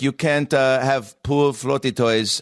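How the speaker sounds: put-on slow, slightly off Polish accent on the landlady; a half-hearted Polish landlady impression, slow. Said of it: "I don't do accents".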